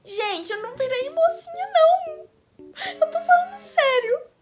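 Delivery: high, wailing mock cry; whiny tearful protest. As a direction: plead like an upset child, rising into a loud whine. Acts her tearful protest to mother.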